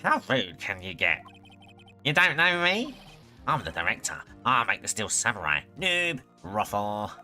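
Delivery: loud, offended outburst; indignant director. Acted. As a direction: play a pompous, insulted director. Offended director character on stand.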